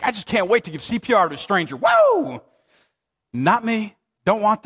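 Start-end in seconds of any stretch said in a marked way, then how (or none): 0.0-2.4 sarcastic cheer ending in a high whoop; mock a doctor thrilled about CPR; mock enthusiasm. Pastor mocking an eager doctor, sarcastic whoop. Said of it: "you're just like".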